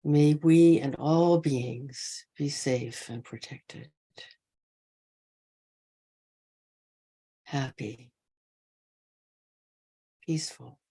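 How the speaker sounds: unhurried loving-kindness guidance, spaced by long pauses; guided meditation. Real, not acted. Teacher wishing all beings safe and happy, guided meditation. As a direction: offer each wish gently and let it rest.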